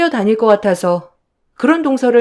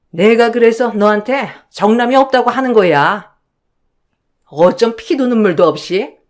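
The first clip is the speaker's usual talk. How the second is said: a hint of a stern mother-in-law taking sides; mother-in-law rebuking the eldest daughter-in-law, mildly stern.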